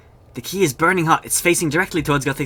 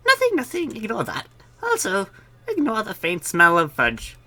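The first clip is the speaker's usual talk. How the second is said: flustered npc voice; 10 semitones higher than usual. Acted. NPC covering up a mistake.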